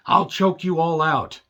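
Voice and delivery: slow, hammed-up menacing promo voice; mock tough-guy threat. Reviewer mocking a wrestler's threat, hammed-up menace. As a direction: sneer it like a cartoon heel.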